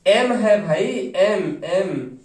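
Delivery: एम, एम stretched very slowly and held long; stress on M. Shown as a demonstration. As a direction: drag out each एम so every one is clearly heard. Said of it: "teacher stresses letter M". (एम को बहुत धीरे, खींचकर बोलें)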